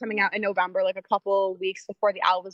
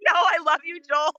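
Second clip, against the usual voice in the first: reassuring; 9 semitones higher than usual. Retold or imitated. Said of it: "And I was like".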